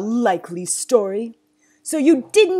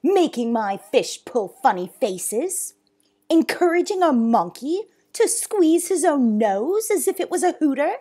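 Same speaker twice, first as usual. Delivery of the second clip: loud, indignant tirade; enraged; 7 semitones higher, 12 dB louder than usual. Acted. Zoo owner listing boy's offences, enraged. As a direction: build in outrage to a high shout. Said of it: "face was red with rage".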